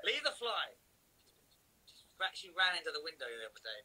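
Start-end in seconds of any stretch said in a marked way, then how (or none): 0.0-0.8 talking to the dog. Real, not acted. Owner scolding dog chasing fly.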